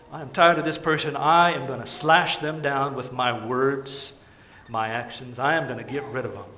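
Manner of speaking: builds from a firm grumble to a loud, furious shout; angry outburst that swells to shouting; mock angry rant. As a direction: work yourself up until you're yelling at them. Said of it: "take things into your own hands and say".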